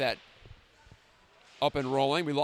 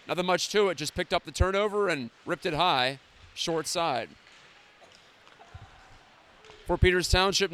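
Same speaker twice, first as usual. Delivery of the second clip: hockey play-by-play. Acted.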